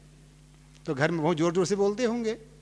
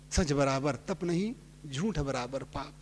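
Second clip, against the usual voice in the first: slow recited couplet; 5 semitones lower, 6 dB quieter, slower than usual. Retold or imitated. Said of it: "सदगुरु कहते हैं".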